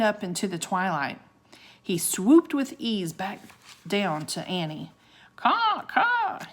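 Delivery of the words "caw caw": high, loud cawing call; raven caw. Acted. Raven thanking Annie as he swoops down, cawing. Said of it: "he called".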